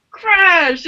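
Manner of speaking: high, drawn-out imitation of a lightning crash; dramatic crash. Storyteller mimicking sudden lightning, dramatic crash. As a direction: make the word burst like lightning.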